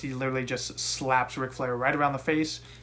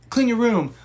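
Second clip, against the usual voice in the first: mock parent's order, higher and louder; a hint of a scolding parent; imitating a nagging parent; 8 semitones higher, 7 dB louder than usual. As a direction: bark it like a fed-up parent, half-joking. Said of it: "a child who's just like".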